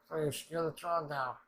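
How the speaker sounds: a character exclaiming in disbelief; loud slow quote. Retold or imitated. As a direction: belt it out slowly. Acted quote after "the guy's.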